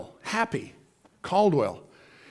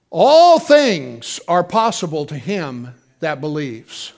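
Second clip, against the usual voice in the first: slow, loud, every word weighted; slow emphatic proclamation; 3 semitones lower, 6 dB louder, slower than usual. Real, not acted. Preacher slowly proclaiming scripture to the congregation. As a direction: lay down each word like a promise. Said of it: "preaching emphasis".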